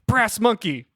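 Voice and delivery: high, loud cry on waking; acted scream out of a bad dream; mock nightmare scream. Irene wakes from a harrowing nightmare, mock screaming. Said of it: "is screaming".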